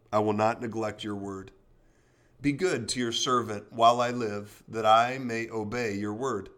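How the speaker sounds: measured devotional Bible reading; scripture reading. Acted. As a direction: read the psalm steadily. Reads Psalm 119 aloud.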